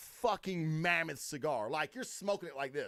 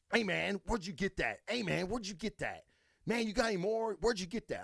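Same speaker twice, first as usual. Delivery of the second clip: imitating eager strangers; 4 semitones higher than usual. Acting out eager strangers approaching him.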